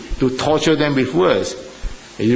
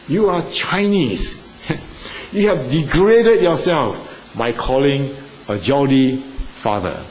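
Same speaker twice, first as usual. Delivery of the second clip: angry father; slower than usual. Retold or imitated. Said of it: "very angry with us".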